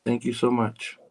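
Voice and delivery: softly spoken thanks in a borrowed smooth voice; a hint of imitation; Bill Blass. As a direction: lightly put on a smooth voice. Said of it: "That's my Bill Blass voice right there".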